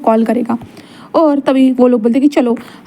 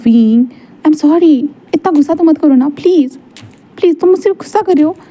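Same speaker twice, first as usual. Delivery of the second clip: pleading apology; 4 semitones higher than usual. Acted. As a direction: stretch the sorry, then plead up high. Apologising to angry Wing. (धीमा खिंचा sorry, फिर ऊँची आवाज़ में मिन्नत)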